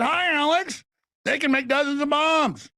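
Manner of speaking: high cute bunny voice; lightly voiced sweet bunny; Easter bunny voice. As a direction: chirp it like a cartoon bunny. Easter bunny speaking to him.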